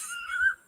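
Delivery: a short high-pitched giggle; high squeaky laugh. Real, not acted. Laughing at the show's crude question. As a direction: burst out in a tiny squeal of laughter. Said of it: "I laughed a little bit".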